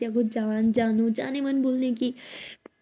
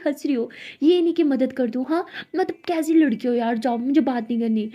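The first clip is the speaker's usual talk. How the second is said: sulky complaint; 2 semitones higher, 4 dB louder than usual. Acted. Siya sulks at laughing friend.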